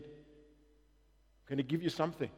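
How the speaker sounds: low, hushed voice of God; quietly voiced divine instruction; God speaking. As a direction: speak softly and low, as God guiding parents. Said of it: "we felt God speak to us and said".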